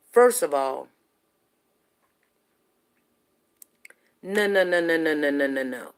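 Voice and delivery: loud, firm no's, repeated and fading at the end; retold angry telling-off. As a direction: scold him hard, then let it ease off. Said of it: "so now I'm very furious".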